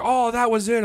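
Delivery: high, mock-disappointed fan; a high impression of a groaning Leafs fan; mock rival fan. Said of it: "he goes like".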